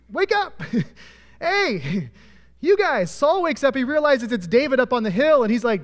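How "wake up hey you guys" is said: hollering out. Retold or imitated. David hollering down the hill to wake Saul's camp. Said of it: "David starts hollering".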